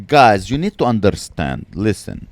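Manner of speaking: put-on preachy heckler in a thick Arabic accent. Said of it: "she has this accent".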